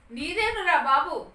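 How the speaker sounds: acted emphatic fatherly reassurance; placating father. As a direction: draw it out to pacify the son. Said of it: "తండ్రి పాపం సమాధానిస్తున్నాడు".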